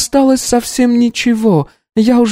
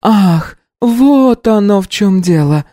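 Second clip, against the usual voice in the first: smirking; 12 semitones higher, 4 dB louder, slower than usual. Acted. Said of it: "усмехнулась".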